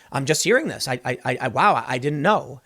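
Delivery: stunned, halting stammer, pitched low; understated shock. Retold or imitated. Commentator reenacts a president hearing news on video, mildly shocked. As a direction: imitate someone taken aback, stumbling over the words. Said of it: "he looks shocked and he goes".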